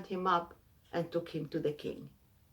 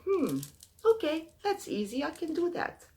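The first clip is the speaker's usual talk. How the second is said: high, pleading voice of a poor traveller; pleading poor man; 10 semitones higher than usual. Acted. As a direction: beg for your life in a much higher voice.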